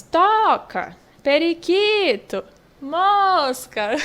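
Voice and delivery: slow, drawn-out TO in "toca", QUI in "periquito", MOS in "mosca"; stretched stressed syllables. Shown as a demonstration. Teacher reading example words to pupils, stressed syllables drawn out in "toca", "periquito", "mosca".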